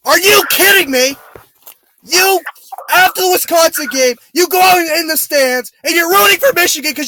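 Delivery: angry rant. Real, not acted. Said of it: "I'm losing my voice".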